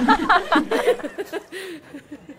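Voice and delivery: teasing laugh. Acted. Teasing friend, laugh heard.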